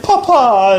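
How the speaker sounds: put-on high, loud childlike call; mimicking a posh movie kid; English little girl. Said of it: "she's like".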